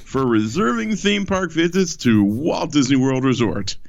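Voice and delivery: booming circus showman opener; ringmaster. Acted. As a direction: sell it like a ringmaster. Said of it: "I tried to sell it as hard as I could".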